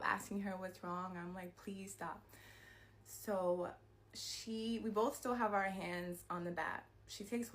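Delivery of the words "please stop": begging. Retold or imitated. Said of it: "I'm begging her to stop".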